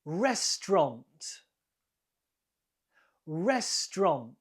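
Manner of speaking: "Restaurant" in two syllables, stressed on RES; two syllables, first stressed. Shown as a demonstration. Teacher modelling a quiz word, "Restaurant" in two syllables, first stressed. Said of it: "The stress is on the first one".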